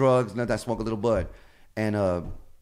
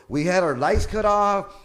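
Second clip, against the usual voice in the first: loud; 8 semitones higher, 6 dB louder, slower than usual. Real, not acted. Excited storytelling.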